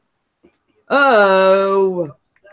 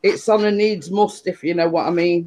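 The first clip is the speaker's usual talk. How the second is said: talking while crunching crisps; chewing crisps between words; crunching chips; 2 semitones lower than usual. Real, not acted. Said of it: "Sorry for the, uh, crunchy sounds".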